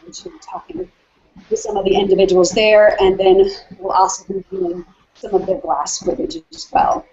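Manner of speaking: out of breath. Real, not acted. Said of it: "You can tell I'm out of breath".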